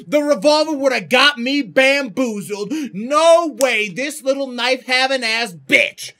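high, worked-up disbelief; indignant rant. Real, not acted. Player rants after the ambush, indignant. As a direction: rant in loud outrage.

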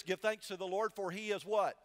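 preacher drawing the congregation's reply; rousing call-out. Acted. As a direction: call it out for the church to answer back. Calling the church to answer.

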